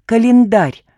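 "календарь" after a pause, loud and high; dramatic reveal. A narrator's reading. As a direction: land "календарь" as a big reveal. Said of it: "сделал драматическую паузу и выдохнул".

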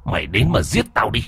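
goading, defiant dare; mocking provocation; taunting challenge. A narrator's reading. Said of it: "thậm chí còn buông lời thách thức".

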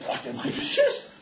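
slow, high whisper; a hushed mock confession; whispered concession. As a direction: breathe it out like a small admission. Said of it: "eu ziceam".

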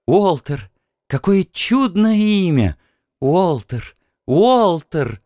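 high, delighted female voice; delighted woman. A narrator's reading. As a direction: savour his name happily. Genevieve delighted by name.

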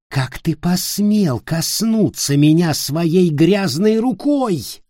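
slow, rising to a high enraged shriek; outraged fury. Acted. Ulfger enraged by Peter's touch.

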